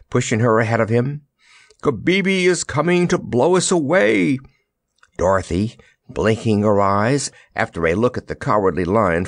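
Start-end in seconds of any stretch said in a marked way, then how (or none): 1.8-4.4 high, urgent warning; urging. A narrator's reading. Soldier hurries Dorothy away from danger, urging. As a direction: warn her to hurry. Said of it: "he urged".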